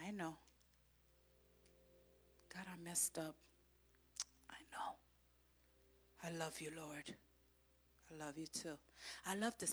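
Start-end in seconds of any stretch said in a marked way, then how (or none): 0.1-0.4 sweet voice of God. Retold or imitated. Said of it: "he comes so sweet and say". 2.5-8.8 soft confession. Retold or imitated. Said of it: "he comes so sweet".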